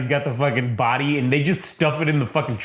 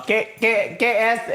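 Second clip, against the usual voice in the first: high, stammering mock panic; panicky janitor; 8 semitones higher, slower than usual. Janitor grabbed by Wesley, mock panic in a high voice. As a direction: sputter it like a cornered man.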